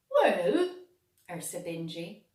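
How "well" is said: a big rising, loud well. A narrator's reading. Bingy starts to answer Clegane, loud and drawn out. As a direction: call it out with a rise.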